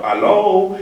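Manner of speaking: "Hello" lifted high, rising; taking it up. Shown as a demonstration. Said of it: "I'm taking it up".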